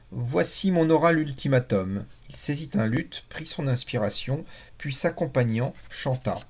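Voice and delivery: measured, lively reading aloud of a novel; expressive literary read-aloud; story narration. A narrator's reading.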